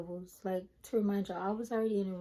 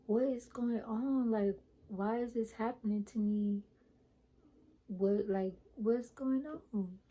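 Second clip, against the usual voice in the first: confused; 2 semitones higher, slower than usual. Retold or imitated. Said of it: "I was so confused".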